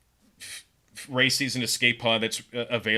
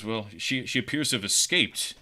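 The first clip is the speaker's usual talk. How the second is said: lightly acted snark; a touch of flat-voiced snark; snarky, flat. Officer reporting an escape to his rival, mildly snarky. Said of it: "kind of a snarky tone".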